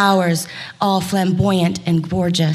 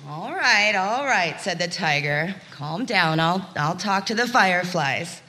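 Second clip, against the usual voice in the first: tiger voice; 2 semitones lower, 5 dB quieter than usual. Acted. Tiger answers gecko.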